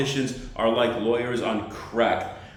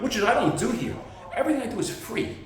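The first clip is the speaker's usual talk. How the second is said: laughing; 11 semitones higher, faster than usual. Real, not acted. Jokes everything free.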